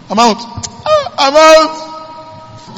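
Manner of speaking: high, far, exultant cry of freedom; joyful shout. Acted. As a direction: sing out the release like a freed prisoner. Joseph rejoicing, freed from prison.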